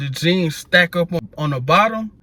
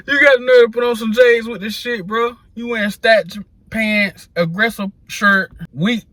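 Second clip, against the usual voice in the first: exasperated rant; 6 semitones higher than usual. Real, not acted. Ranting at friends over their outfits, exasperated and pitched up. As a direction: call out the whole outfit in disbelief.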